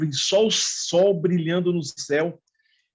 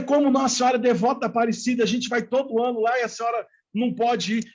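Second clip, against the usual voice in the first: higher-pitched, mildly indignant disbelief; retold protest, pitched up in disbelief; incredulous protest; 5 semitones higher than usual. Grandson to grandmother who will not come, mildly incredulous.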